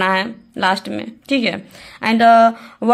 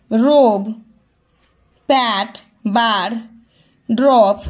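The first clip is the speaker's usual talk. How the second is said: slow, deliberate textbook read-out; reading out a rule; much slower than usual. Real, not acted. Teacher reading a grammar rule to students, slow and deliberate. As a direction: read the rule word by word, slowly.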